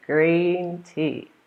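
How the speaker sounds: "Green tea" with a wide smile; smiling green tea. Shown as a demonstration. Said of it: "You have to smile".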